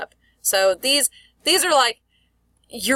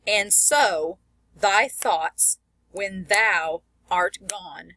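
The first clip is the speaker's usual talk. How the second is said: slow verse pushing "so", "thoughts", "thou", "gone"; iambic stress; much slower than usual. Shown as a demonstration. Teacher reading Shelley to show meter, iambic stress on "so", "thoughts", "thou", "gone". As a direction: push every second word: "so", "thoughts", "thou", "gone". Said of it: "that second syllable's getting pushed".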